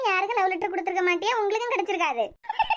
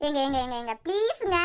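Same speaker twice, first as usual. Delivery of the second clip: coaxing whine, repeating his name; wife begs her husband to write her a love letter, whining; pleading; 4 semitones lower than usual. Acted. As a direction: wheedle him until he gives in.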